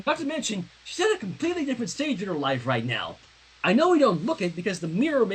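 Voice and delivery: haughty princess. Acted. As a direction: talk down to the younger girl. Reads Princess Twilight's lines.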